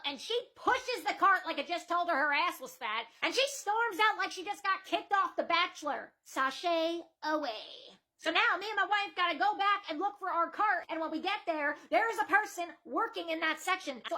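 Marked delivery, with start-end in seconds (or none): 6.2-8.0 slow drawn-out sashay away; a sassy slow send-off; sassy dismissal. Pretend. Mocking her exit.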